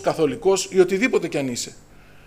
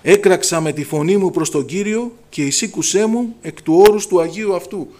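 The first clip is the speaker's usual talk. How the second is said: solemn psalm reading; 5 dB louder than usual. Acted. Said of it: "λέει ο Δαβίδ".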